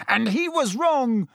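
high, heated outburst; contained, high-pitched yell. A narrator's reading. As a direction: yell it in accusation, without full volume. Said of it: "Harry yelled".

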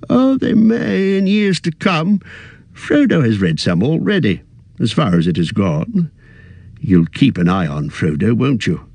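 put-on a fussy old hobbit, a little weary; old hobbit voice, tired at heart; Bilbo. Bilbo's voice in narration.

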